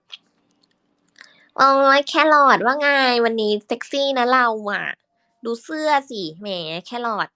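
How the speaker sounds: high, loud, drawn-out flirty tease; flirty teasing voice. Shown as a demonstration. Teasing Carrot about the sexy shirt, high, loud and drawn out. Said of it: "คุยกับพี่จู พี่เจษเสียงไหนคะ".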